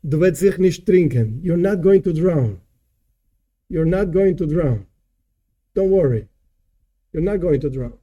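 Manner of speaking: calm, unhurried reassurance, spaced by pauses; gently acted comforting answer; Rebbe's reassurance. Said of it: "And the Rebbe answers him".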